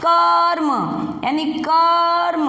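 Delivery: कर्म with a short, quick र; कर्म said slowly and clearly, र given little time; teaching pronunciation. Shown as a demonstration. Teacher shows children how to read कर्म, clear slow demo. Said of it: "अब इसको पढ़ेंगे कैसे?".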